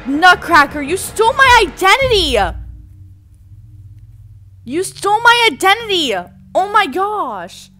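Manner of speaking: high, loud mock outrage; outraged shout. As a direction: yell the accusation at full pitch. Confronting a lookalike in the game.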